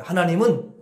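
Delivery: calm loving words of blessing; gentle blessing. Shown as a demonstration. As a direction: say it like a tender blessing. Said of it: "이렇게 말을 하시라는 거야".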